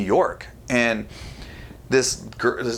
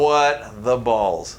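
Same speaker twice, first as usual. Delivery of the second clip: stunned disbelief; much slower than usual. Retold or imitated. Astonished at being recognised.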